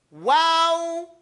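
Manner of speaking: "Wow" held long, fully formed; unlazy articulation. Shown as a demonstration. Teacher warning against laziness, full drawn-out "Wow". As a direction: give the whole of "Wow", sustained. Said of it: "You cannot be lazy".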